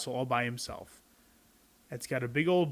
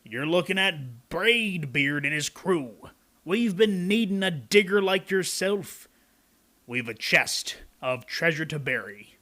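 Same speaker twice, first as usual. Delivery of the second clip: lightly voiced pirate captain; 3 semitones higher, 4 dB louder than usual. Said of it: "he said".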